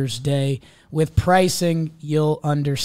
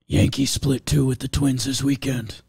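gravelly announcer voice. Shown as a demonstration. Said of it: "Uh, Trev".

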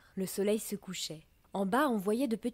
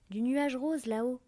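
proud reply; 5 semitones higher, 3 dB louder than usual. A narrator's reading. Perlette answers the sneering drops.

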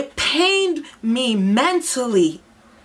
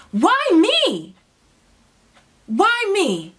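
high, loud, desperate cry of why me; anguished outcry; 9 semitones higher, 4 dB louder, slower than usual. Retold or imitated. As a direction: cry it out to God, pained. Retelling her anguished outcry to God.

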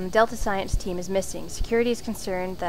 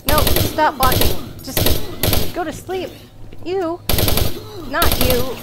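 frantic pleading; 5 semitones higher, 7 dB louder than usual. Real, not acted. Pleading with a monster.

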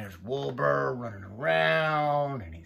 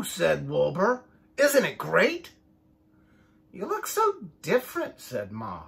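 lively picture-book read-aloud, voices for each sheep; reading to children; 4 dB louder than usual. A narrator's reading. Parent reading a sheep story to the child, lively storytime voice. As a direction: read it like storytime for little ones.

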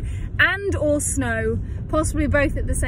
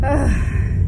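weary groan; 3 dB louder than usual. Real, not acted. Worn out by own brain.

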